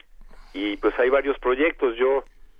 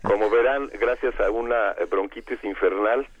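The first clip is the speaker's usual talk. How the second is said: hoarse from bronchitis; rough, cavernous sick voice. Real, not acted. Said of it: "tengo una, una voz cavernosa del Averno".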